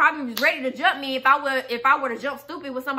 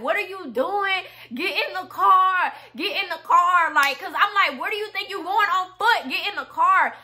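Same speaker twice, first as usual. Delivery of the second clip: exasperated pleading; 4 semitones higher than usual. Retold or imitated. Pleading with him while following in car.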